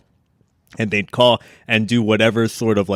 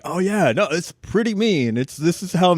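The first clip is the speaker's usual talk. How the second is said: mock restaurant worker; 8 semitones higher than usual. Friends prank calling a steakhouse, higher mock worker voice. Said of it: "they'd be like".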